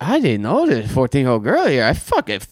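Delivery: high, hammed-up party dude; dumb excited guy. The pest guy to Chris, gushing way up high. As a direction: gush like a clueless guy ready to party. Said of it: "And he's just like".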